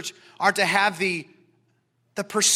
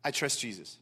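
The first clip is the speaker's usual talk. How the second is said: quiet trust; 9 semitones lower, 12 dB quieter than usual. Retold or imitated. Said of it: "audacity of soul that just rises up and says".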